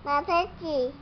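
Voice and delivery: muffled, talking around an object in the mouth; something in mouth. Real, not acted. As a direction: say it without taking it out of your mouth. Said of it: "Não tá tirando da boca".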